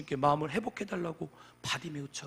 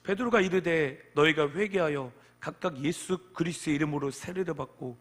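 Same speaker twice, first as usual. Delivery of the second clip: loud, proclaimed Bible verse; declamatory scripture reading; 6 dB louder than usual. Real, not acted. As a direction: read the verse out firmly to the congregation. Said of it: "제가 읽어보겠습니다".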